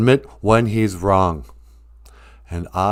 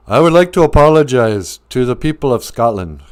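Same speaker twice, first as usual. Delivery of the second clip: grand mock apology. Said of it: "use an apology to really boost up yourself".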